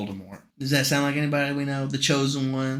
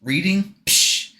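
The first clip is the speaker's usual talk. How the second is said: mocking a smug hero, loud; cocky jock voice; 4 dB louder than usual. Friend mocking Harry as a cocky jock. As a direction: brag it like a dumb jock. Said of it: "He's like".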